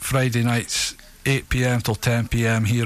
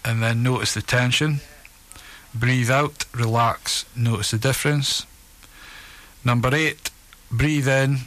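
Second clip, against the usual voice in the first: evenly paced relaxation script with pauses; guided relaxation. Acted. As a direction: guide them steadily through each breath and release. Reads a guided relaxation exercise.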